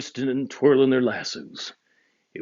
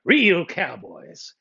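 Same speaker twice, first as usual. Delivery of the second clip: cowboy voice; 7 semitones higher than usual. Acted. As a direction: talk like a rugged trail boss. Cowboy Dan's voice.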